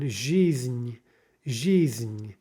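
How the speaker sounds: "жизнь" with the N sounded as its own ending; syllabic final N. Shown as a demonstration. Teacher giving a Russian example, syllabic N. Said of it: "here with an N".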